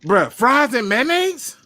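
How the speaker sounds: can't believe what he's hearing; stretched-out outrage at fries and mayo; disbelief. Real, not acted.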